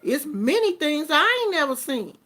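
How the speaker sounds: normal talking voice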